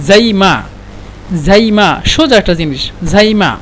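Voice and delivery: clear, careful "জাইমা" to echo; repeat after me. Shown as a demonstration. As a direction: say "জাইমা" slowly so students copy. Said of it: "আমার উচ্চারণের পিছে পিছে বলেন".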